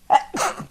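one sudden sneeze; a real sneeze mid-show; sneezing. Real, not acted. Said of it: "Sorry for the sneeze".

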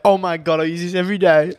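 high, loud gushing over a coffee mug; mock excited mum. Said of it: "She's like".

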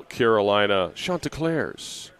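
drawn-out, lightly pretentious team name; mildly pretentious. Shown as a demonstration. Host naming the visiting team, a little pretentious. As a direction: say it slowly with a touch of pomp. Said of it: "a little bit pretentious when you say it".

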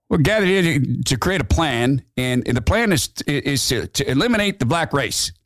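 half-hearted mock leader opening a meeting; lightly voiced white supremacist. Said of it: "I'll try to do it in Metzger's voice".

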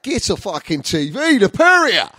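high yell rising at the end; mock exasperated yell. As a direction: cry it out in comic exasperation. Mock heckles his grandad.

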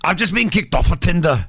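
attempted Scottish accent; a singer. Host copying a clip of singer, attempted Scottish accent. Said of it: "he sounds sixty percent like a singer".

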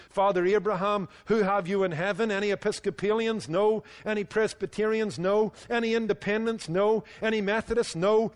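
lightly acted declaiming preacher; quoted call and answer with punched refusals; George Whitfield. Preacher calling up to Father Abraham in heaven, lightly declaimed. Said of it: "what about George Whitfield?".

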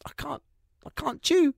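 whale voice. Retold or imitated. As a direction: deliver "I can't chew" as the beached whale. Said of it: "I am the voice behind".

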